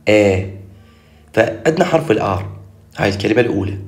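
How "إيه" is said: إيه as "eh", not "ee" or "ah"; open "e" vowel. Shown as a demonstration. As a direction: repeat إيه as a clear "eh". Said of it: "عيدها بعد".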